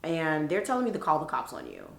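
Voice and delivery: mildly soothing, measured appeal; talking her down. Retold or imitated. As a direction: reason with someone to settle them. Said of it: "I talk her down".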